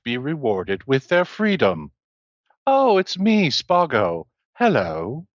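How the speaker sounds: imitating Spago. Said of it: "attempt to replicate Spago's voice".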